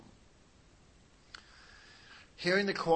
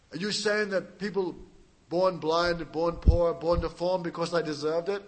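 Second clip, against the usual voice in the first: pushy, louder challenge; aggressive interviewer; 5 dB louder than usual. Retold or imitated. The interviewer grilling the preacher, aggressively. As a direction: press the question hard. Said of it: "interview was very aggressive".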